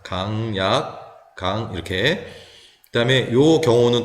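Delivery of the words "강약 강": slow, spaced "강약, 강"; strong-weak-strong stress. Shown as a demonstration. Teacher counting out the stress, slow strong-weak-strong. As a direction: stretch each beat of "강약, 강", strong at both ends. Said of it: "이게 강이 되겠죠".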